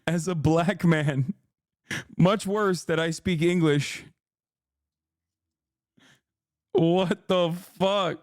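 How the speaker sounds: slow, laughing incredulity; laughing disbelief. Real, not acted. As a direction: chuckle through the words.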